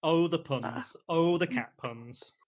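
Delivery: hushed, breathy groan at the puns; a soft pained whisper over bad puns. Real, not acted. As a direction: whisper it like a weary sigh.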